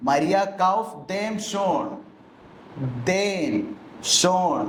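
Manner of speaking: slow, with ദേം and ഷോൺ set apart and marked; stress on ദേം. Shown as a demonstration. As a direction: linger on ദേം ഷോൺ to show the dative. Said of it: "ആർക്ക് വേണ്ടി വാങ്ങി?". (ദേം ഷോൺ എന്നതിന് ഊന്നൽ)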